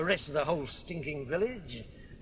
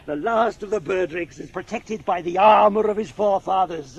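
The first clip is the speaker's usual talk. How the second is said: loud boast; 8 dB louder than usual. Acted. Drunk brother boasting loudly.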